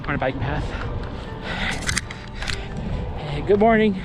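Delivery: talking mid-jog; while running. Real, not acted. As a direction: speak while running along. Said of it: "I'm gonna go back to running".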